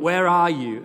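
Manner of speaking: God calling for the hiding man. Acted. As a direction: call out across the garden. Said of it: "calling out".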